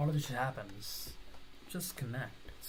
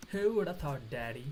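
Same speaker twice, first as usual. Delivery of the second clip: a playful sing-song tease; mock flirty tease. Shown as a demonstration. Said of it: "why did I say it like that".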